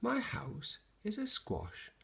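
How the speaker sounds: put-on high, wavering old lady plea; pleading old lady. Old lady begging the wise man for help, high pleading.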